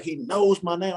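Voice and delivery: awed fanboy squeak; starstruck kid voice. Retold or imitated. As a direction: squeak it like a giddy little kid. Like a little kid.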